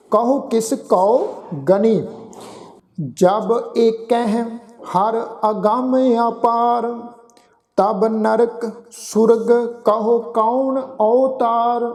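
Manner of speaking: slow, measured scripture recitation; gurbani recitation. Acted. Granthi reciting Sukhmani Sahib to the sangat, slow and measured. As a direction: recite each phrase with pauses, devoutly.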